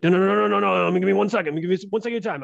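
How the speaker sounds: high, loud imitation of a pushy street magician; insistent pleading. Street magician begging a passer-by for one second, high insistent plea. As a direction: rattle off the no's, begging to be heard.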